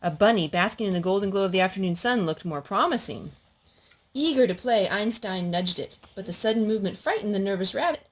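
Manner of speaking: gentle storybook narration; reading to children. A narrator's reading. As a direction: read it like a bedtime story. Reads picture book to child.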